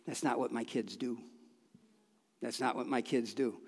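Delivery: low, soft acted rebuke; quiet fatherly correction. God speaking about his kids' behavior, quiet correction.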